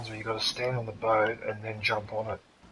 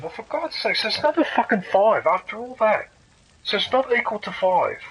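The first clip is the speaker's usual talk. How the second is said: annoyed; 9 semitones higher, 6 dB louder than usual. Real, not acted. Gamer impatient at the puzzle.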